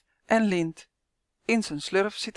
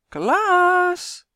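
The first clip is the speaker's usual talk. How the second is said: loud, very high drawn-out shriek; grandma happily yelling the dog's name; gleeful yell; 11 semitones higher, 7 dB louder than usual. A narrator's reading. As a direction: shriek the name just for the fun of it. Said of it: "Ik wilde even lekker gillen".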